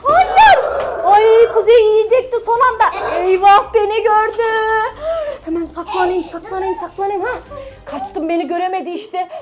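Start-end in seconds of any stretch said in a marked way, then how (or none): 0.0-0.6 being chased. Pretend. Playing chased by sumo. 5.4-9.3 hushed hiding. Pretend. Hiding from pretend sumo.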